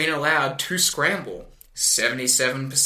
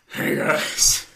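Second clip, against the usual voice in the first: whispered mock greeting. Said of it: "he's like".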